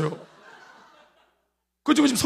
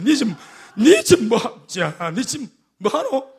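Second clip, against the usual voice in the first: slow inner rebuke; slower than usual. Retold or imitated. God's voice repeating rebuke.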